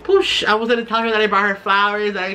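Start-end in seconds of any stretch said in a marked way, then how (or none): 0.0-0.4 a puffed "poosh" blast; imitated brain-explosion noise. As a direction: mimic a small explosion with the mouth. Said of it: "my brain just kinda went".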